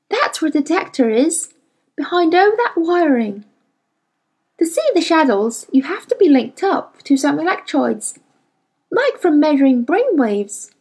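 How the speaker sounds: lightly voiced tired scientist, matter-of-fact; a hint of a tired woman scientist; Doctor Malone explaining. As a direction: explain it like a weary researcher.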